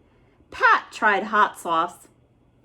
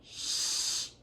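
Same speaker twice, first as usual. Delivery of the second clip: unvoiced library shush; whispered shush; 11 dB quieter than usual. Librarian hushing the noisy boys, whispered. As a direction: hush them sharply.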